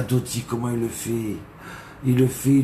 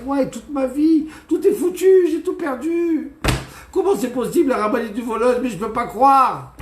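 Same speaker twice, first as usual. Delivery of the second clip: crying out; 9 semitones higher than usual. Acted. Ruined guest lamenting his purse, high distraught wailing. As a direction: wail that everything is lost. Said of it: "Il commence à crier".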